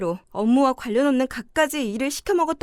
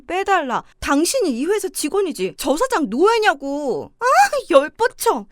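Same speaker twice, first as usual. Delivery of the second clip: angry outburst; 2 semitones higher than usual. Acted. Wife boiling over at the boss, angry outburst. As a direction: let the anger boil over. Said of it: "목소리 좀 낮춰".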